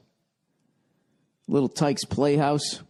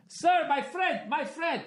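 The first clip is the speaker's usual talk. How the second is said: much higher, softer, slow oily salesman plea; mock pleading salesman; 5 dB quieter, slower than usual. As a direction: coax the buyer like a smarmy dealer.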